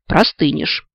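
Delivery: usual speaking voice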